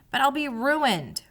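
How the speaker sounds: slow mock whimper; a hammed-up little whine; understated whimpering mouse. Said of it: "whimpered Tucker".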